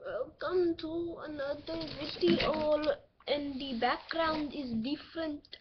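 put-on Indian accent, slow start; lightly faked Indian accent; bad Indian accent. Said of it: "speaking in a very bad, um, Indian accent".

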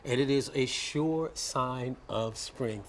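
slow, deliberate broadcast wrap-up; news anchor read. Acted. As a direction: close it out like a news promo. Anchor wraps the segment.

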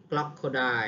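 "คลักเขาได้" with the opening k and l run together as one sound; blended consonant cluster. Shown as a demonstration. Teacher showing learners how crocodile starts, "คลักเขาได้" with a blended opening cluster. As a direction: say "คลักเขาได้" with no vowel between the first two consonants. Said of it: "ออกเสียงเดียวเนาะ".

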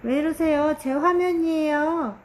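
loud protest. Real, not acted. Protests son's interference.

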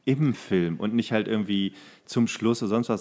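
usual speaking voice

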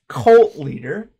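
cracking up mid-phrase, slow and loud; giggling at the idea of a cult leader; laughing. Real, not acted. Laughing while repeating phrase.

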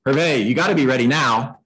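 mildly pushy demand. Shown as a demonstration. Agent badgering a client who isn't ready, pushy. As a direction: press the client for readiness. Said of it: "one is pushy".

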